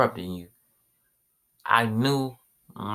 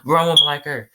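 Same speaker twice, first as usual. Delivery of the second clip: much higher, louder mock scream; furious shout; 11 semitones higher, 4 dB louder, faster than usual. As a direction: yell it in a high strained voice, losing it completely. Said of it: "He said".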